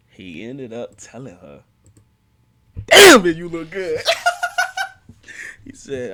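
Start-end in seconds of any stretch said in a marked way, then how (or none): 2.9-4.0 loud, higher-pitched holler breaking into laughter; hyped-up compliment. Retold or imitated. 4.0-5.6 loud squealing laugh; high-pitched cackle. Real, not acted. Cracks up at the compliment.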